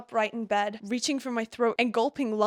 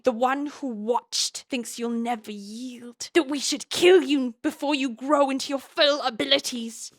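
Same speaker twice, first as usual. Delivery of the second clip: a lightly voiced evil cave dweller, a little louder; 3 semitones higher, 4 dB louder than usual. The sage demanding Violet show her power, as a light evil cave dweller. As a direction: ham up a villain from the caves, but only lightly. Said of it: "evil cave dweller".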